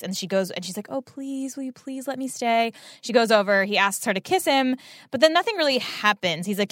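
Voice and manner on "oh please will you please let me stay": mock coy plea, higher and softer; coy pleading. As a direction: imitate a sweetly manipulative little plea, voice lifted and hushed. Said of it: "puts on the coy face".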